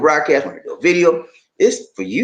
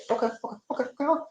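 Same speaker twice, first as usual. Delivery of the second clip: soft, quick repeated OKAY; unremarkable okay; 8 semitones higher, 11 dB quieter, much faster than usual. Shown as a demonstration. Host showing what fails to get attention, soft throwaway okays. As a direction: rattle OKAY off quietly. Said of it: "that don't mean nothing to me".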